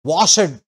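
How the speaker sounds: వాషెడ్ with its voice lifted on the ending; imitating the learner; mock wrong reading. Shown as a demonstration.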